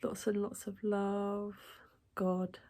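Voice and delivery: gentle sign-off. Pretend. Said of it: "I'm going to say".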